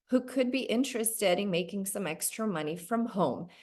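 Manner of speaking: calm, easygoing reply that settles down after the wow. Retold or imitated. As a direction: stay composed and ask without pushing. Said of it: "okay, very calmly, I said".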